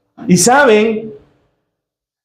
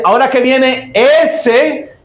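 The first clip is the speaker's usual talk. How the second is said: contemptuous "ese"; 4 semitones higher, slower than usual. Acted. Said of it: "miren qué despectivo".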